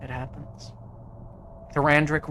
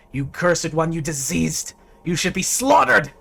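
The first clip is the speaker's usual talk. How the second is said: louder, rising angry jeer; crowd accusation; 3 semitones higher, 6 dB louder than usual. Acted. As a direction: mob jeering at the halfling. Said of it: "pointing at him, saying".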